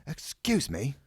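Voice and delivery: high-pitched polite interruption; piping up. A narrator's reading. Ron interrupts about the schedule, piping up. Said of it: "Ron piped up".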